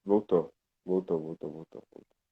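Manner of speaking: choppy, broken-up call audio; buffering stutter. Real, not acted. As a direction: voice dropping out on a bad line. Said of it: "Tá voltando agora".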